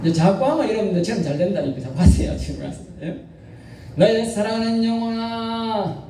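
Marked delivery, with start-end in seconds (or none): 4.0-6.1 tender call. Shown as a demonstration. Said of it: "다시 한번 따라합니다".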